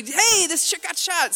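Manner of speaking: imitated calling out. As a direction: call out slowly for an officer's attention. Passerby flags down an officer.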